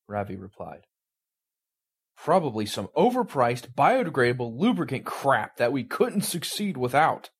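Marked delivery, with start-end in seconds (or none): 2.2-7.3 snarling. Acted. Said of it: "Baldrick snarled".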